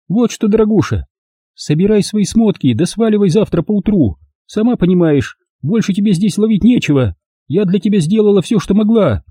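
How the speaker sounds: high, cold dismissive mistress; Olga's cold voice. A narrator's reading. Olga telling the maid to leave by morning, dismissive. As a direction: order her out coldly.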